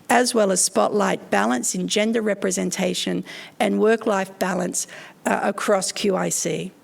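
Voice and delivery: hoarse, croaky from a cold. Real, not acted. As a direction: talk through a croaky throat. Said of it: "I apologise for my croaky voice".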